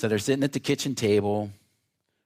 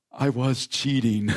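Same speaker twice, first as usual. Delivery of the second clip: laughing confession; 2 semitones higher, 3 dB louder than usual. Retold or imitated. Boy confessing while laughing.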